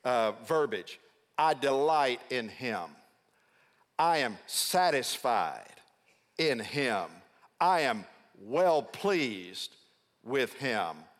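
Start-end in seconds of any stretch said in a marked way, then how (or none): 1.4-11.1 slow, deliberate divine declaration; phrase by phrase, pausing and falling at each close; voice from heaven. Acted. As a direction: proclaim approval slowly and weightily. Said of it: "That voice communicates Isaiah's".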